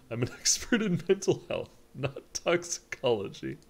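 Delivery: high, loud doctor laughing mid-line; hammed-up doctor. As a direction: play the fussy doctor loudly.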